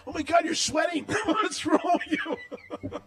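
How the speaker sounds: high-pitched, exasperated quote; mock exasperated ex-girlfriend. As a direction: imitate an appalled ex, pitched well up. Retold quarrel with ex-girlfriend.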